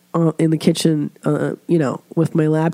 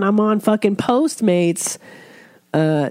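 ordinary talk

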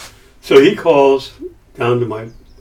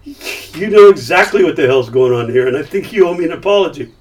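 angry retort; 4 semitones higher than usual. Retold or imitated. Confronting Milius.

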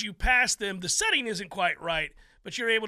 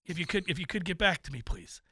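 pleading voicemail; 5 semitones lower, 4 dB quieter, faster than usual. Retold or imitated. Mock anxious voicemail.

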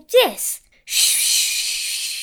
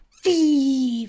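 coach's giant example; giant demo; 4 dB louder than usual. Shown as a demonstration. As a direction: demonstrate the giant line. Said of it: "Like this".

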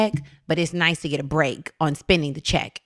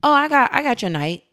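imitating mom; 7 semitones higher, 4 dB louder than usual. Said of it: "She was like".

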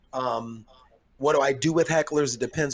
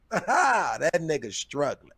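mocking heckle. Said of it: "this guy out of the back go".

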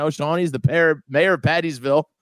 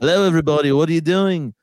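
a laughing, hammed-up bad British accent; mock British accent, giggling through it; 2 semitones higher, 3 dB louder than usual. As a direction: fake a British accent badly on day one of the shoot. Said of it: "play a British person".

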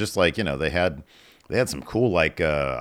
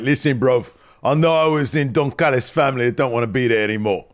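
bad British accent. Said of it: "I don't know what that accent was".

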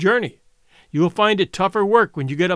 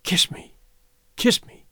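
whispered; 3 semitones higher than usual. A narrator's reading. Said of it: "she whispered".

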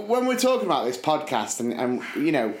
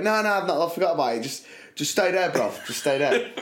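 Cockney imitation; 3 semitones higher than usual. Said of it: "Cockney John".

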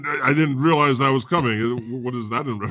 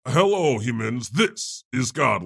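announcer voice; slower than usual. Retold or imitated. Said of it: "I was going".

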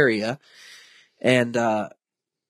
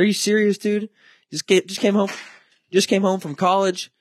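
furious doctor; 7 semitones higher than usual. Retold or imitated. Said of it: "he was furious at that guy".

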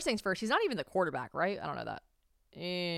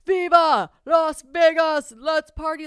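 slow, drawn-out rowdy party yell, much louder and higher; party shout; 10 semitones higher, 13 dB louder, slower than usual. Retold or imitated. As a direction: belt it like a drunk celebration cheer. Quoting Travis's victory speech.

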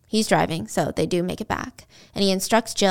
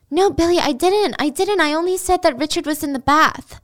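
panicked denial; 7 semitones higher than usual. Retold or imitated. Jill desperately denying.

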